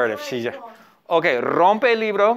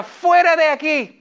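mock yell; 10 semitones higher, 4 dB louder than usual. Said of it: "Ella grita".

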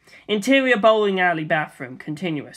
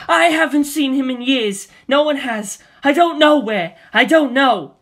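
higher and louder, desperate yelling; frantic shout; 7 semitones higher, 6 dB louder than usual. Acted. Daisy screaming at Waluigi holding a gun, frantic. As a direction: yell the denial in panic.

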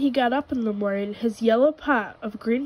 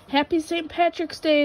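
higher, cheerful call; 6 semitones higher than usual. A narrator's reading. Rabbit and Goat call greetings at the parade. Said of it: "they called out to everyone".

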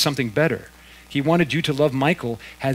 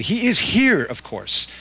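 sharply higher and louder, fierce insistence; almost fierce; 8 semitones higher, 6 dB louder, slower than usual. A narrator's reading. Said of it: "and then almost fiercely".

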